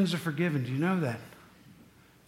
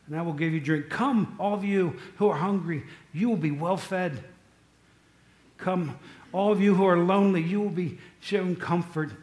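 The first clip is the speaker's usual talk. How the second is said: scripture recital. Acted. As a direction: call them in gently. Quotes scripture invitation.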